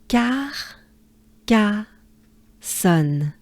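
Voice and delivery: "Car, ca, son" split into separate beats; syllable by syllable. Shown as a demonstration. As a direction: break Carcassonne into its three syllables. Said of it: "Now, let's try together".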